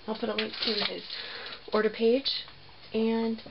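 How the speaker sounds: talking through a dust mask; muffled voice behind a mask. Real, not acted. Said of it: "if I sound muffled, it's because I've got a mask on".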